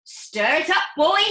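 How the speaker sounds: high, loud eager father, slowing at the end; an eager dad ticking off his shopping; father reporting his purchases, high and loud; excitable father voice. Acted. Mr Cranky orders George.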